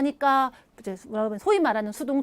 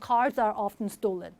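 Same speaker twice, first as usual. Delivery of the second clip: slow, clear and quieter, word by word; slow model sentence; 5 semitones lower, 4 dB quieter, much slower than usual. Shown as a demonstration. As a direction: set out the model sentence slowly for learners. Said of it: "often 이런 거 B타입 동사 뒤 얘기했잖아요".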